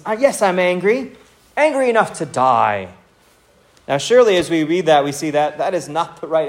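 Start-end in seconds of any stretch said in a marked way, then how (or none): 0.1-2.9 lightly acted sulk, starting high and dropping; sulky, unhappy. Jonah answering God in self-pity, mildly sulky. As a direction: grumble it like a wounded complainer. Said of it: "sulky, and he is full of unhappiness".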